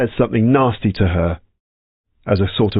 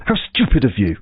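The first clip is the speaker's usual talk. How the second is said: mock put-down. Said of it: "So it would be something like".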